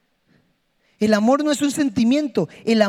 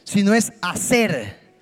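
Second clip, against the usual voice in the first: leading a prayer; 3 dB louder than usual. Acted. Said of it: "haga esto por favor y diga".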